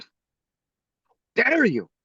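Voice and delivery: drawn-out, high-pitched mock outrage; indignant judge. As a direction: stretch it out like an affronted judge. Offended judge retold.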